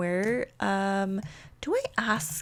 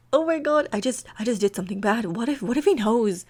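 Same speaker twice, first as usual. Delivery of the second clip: rapid, repetitive acted fretting; mildly acted nervous spiral; freaking out; faster than usual. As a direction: fret in circles, tripping over the words. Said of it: "like, freaking out".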